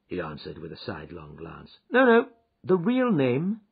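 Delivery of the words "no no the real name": slow, high, sweet correction; sweetly. Acted. Holmes catches out a false name, sweetly. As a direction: correct him with drawn-out politeness. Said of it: "said Holmes sweetly".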